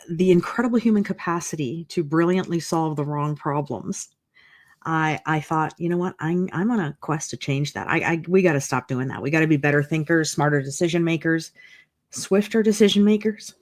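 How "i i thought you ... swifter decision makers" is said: slightly winded, catching breath. Real, not acted. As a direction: talk between short breaths. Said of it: "I'm catching my breath a little bit".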